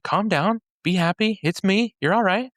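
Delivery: lightly voiced reassurance, pitched well up; Jesus reassuring. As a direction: imitate someone calling out to soothe frightened friends, high and easy. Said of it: "Jesus calls out to him, and he says".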